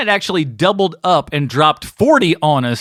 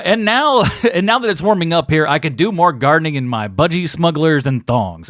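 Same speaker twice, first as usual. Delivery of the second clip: lightly put-on Aussie accent with a laugh breaking in; bad Australian accent. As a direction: read it in amateur Australian. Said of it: "help you with your terrible accent".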